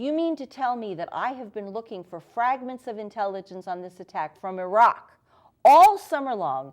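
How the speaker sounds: frantic, angry, disbelieving; hysterical outburst. Retold or imitated. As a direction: build from disbelief into an outraged shout. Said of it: "I was hysterical, I was screaming".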